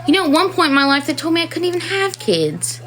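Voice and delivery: tearful. Real, not acted. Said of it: "I'm trying not to cry".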